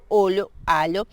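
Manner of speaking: "olo, alo" with palatal l as in olho, alho; Portuguese LH. Shown as a demonstration. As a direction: model "olo, alo" for practice, tongue to upper teeth. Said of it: "deben tratar de practicar esa pronunciación".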